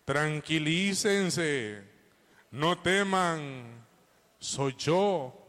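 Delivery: slow and steady, a little fuller; calm reassurance, repeated. Retold or imitated. Preacher repeating Jesus' words for the congregation, slow. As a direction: repeat it slowly so it sticks. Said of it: "Cómo dijo Jesús".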